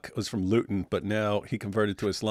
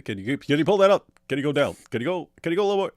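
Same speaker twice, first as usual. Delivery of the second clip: playful mimic of the host's scroll requests, rushing higher at the end; imitating Patrick; 4 semitones higher, 4 dB louder, much faster than usual. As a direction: copy the interviewer fussing over the screen. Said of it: "this is what Patrick does".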